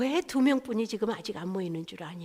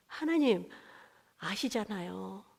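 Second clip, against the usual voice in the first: soft slow plea; 2 semitones lower, 6 dB quieter, slower than usual. Retold or imitated. Pleading with God.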